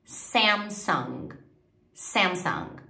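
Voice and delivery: "Samsung" as "SAM-sung"; measured English "Samsung"; English pronunciation. Shown as a demonstration. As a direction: separate both syllables of "Samsung". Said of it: "é Samsung".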